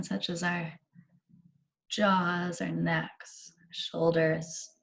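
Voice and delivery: unhurried meditation guide with long pauses; measured, spacious meditation delivery; guided meditation. Real, not acted. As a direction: ease them gently into relaxation, leaving space between phrases.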